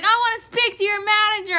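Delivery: quick, high-pitched demand; imitated mad customer. Clerk mimics customer demanding the manager, mad. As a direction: demand it like an irate caller. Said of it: "She was so mad".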